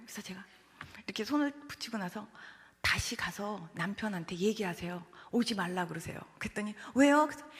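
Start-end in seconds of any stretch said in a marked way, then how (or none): 2.8-6.2 calm instruction. Retold or imitated. Preacher telling the anxious mother to call off her husband, calm. 7.0-7.3 loud, sudden why; startled question. Retold or imitated. Mother questioning the preacher's odd instruction, startled.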